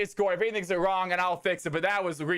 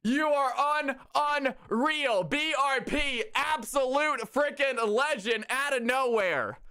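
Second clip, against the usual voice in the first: excited praise; 5 semitones higher, slower than usual. Real, not acted. Streamer celebrates gifter.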